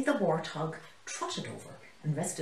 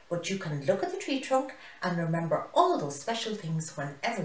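chattering. Acted. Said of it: "Binny the baboon chattered".

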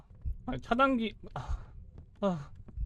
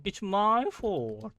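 slow drawn out; 4 semitones higher, much slower than usual. Shown as a demonstration. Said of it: "내 잘못이면".

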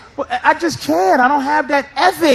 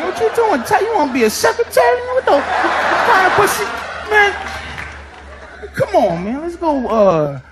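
high, fast mocking jeer; a teen mocking a classmate, high and scornful; mocking teen bully; 5 semitones higher than usual. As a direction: jeer at the typing kid. Teenage self mocking typing student.

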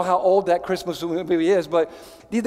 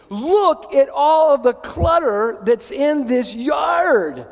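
exclaiming; 4 semitones higher, slower than usual. Real, not acted. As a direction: hammer out the shock over the messy yard. Showing a cluttered yard picture.

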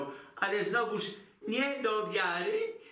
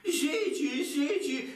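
indignant repeat; 7 semitones higher, slower than usual. Acted. Mocking the son-in-law's insult.

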